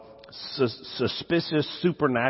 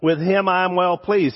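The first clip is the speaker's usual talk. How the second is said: slow, louder, solemn proclamation; voice from the cloud; 5 semitones higher, 4 dB louder, slower than usual. Retold or imitated. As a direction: announce it slowly like a divine voice. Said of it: "a voice from the cloud said".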